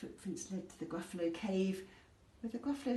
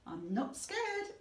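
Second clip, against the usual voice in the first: slow, higher brave claim; child voice; 6 semitones higher, slower than usual. Acted. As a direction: insist bravely, drawn out. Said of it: "said the Gruffalo's child".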